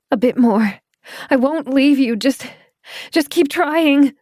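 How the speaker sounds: high, loud coaxing, slowing at the end; straining encouragement. Acted. Claire holding Doran up, loud high encouragement. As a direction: urge him on as you lift.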